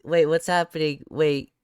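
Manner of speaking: loud, high, frantic questions; scrambling to understand in real alarm; breathless shocked rambling; panicked disbelief. Real, not acted.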